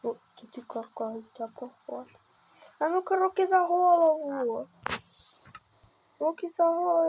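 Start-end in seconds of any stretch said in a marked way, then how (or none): 2.8-7.1 loud, raised captor's command; play-acted stern order. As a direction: order a captive about, hammed-up. Plays captor ordering a captive. (грізний наказ понарошку)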